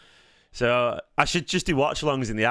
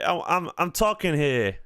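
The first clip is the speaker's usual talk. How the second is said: slow, higher put-on American accent; mock American accent; 4 semitones higher than usual. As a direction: play a cartoonish American, drawn out. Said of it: "Should I do more of a".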